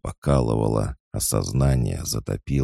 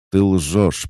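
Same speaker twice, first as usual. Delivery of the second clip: much higher, louder accusing cry; shouted accusation; 9 semitones higher, 7 dB louder than usual. A narrator's reading. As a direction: hurl it at the liar. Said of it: "прокричал я". (громкий крик обвинения)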